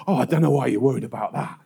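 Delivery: low, quick brush-off; dismissive. Retold or imitated. Someone hearing a friend share worries, dismissive. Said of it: "they dismiss them out of hand".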